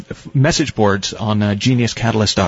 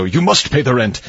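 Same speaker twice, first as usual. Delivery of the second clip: sneering panto villain. Retold or imitated. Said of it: "put it over your mouth like a mustache and go".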